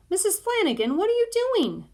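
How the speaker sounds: high, rising protest; indignant surprise. A narrator's reading. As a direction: stop her in shock. Teresa objecting to unwrapping.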